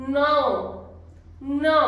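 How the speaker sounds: no said deep and through the nose, like nasal "now"; no with a nasal ending. Shown as a demonstration. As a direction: make no sound from deep inside. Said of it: "nasal sound है और बहुत गहरी आवाज है".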